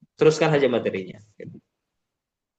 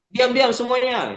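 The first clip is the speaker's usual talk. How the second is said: high-pitched mock classroom scolding; teacher's hush; 8 semitones higher than usual. Shown as a demonstration. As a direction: call the class to silence. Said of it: "Termasuk di sekolah gitu".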